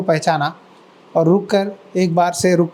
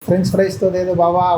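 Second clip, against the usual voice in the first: blind beggar. Retold or imitated. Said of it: "कोई अंधा आया". (अंधे भिखारी की धीमी गुहार की नकल)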